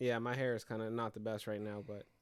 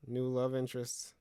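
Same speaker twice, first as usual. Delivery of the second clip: dramatic movie trailer narration; trailer announcer voice; slower than usual. Pretend. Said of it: "you sound like a trailer for Sex and the City".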